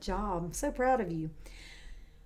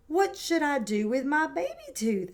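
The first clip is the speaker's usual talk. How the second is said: curious little pig; 5 semitones higher than usual. Acted. Peppa asks mum.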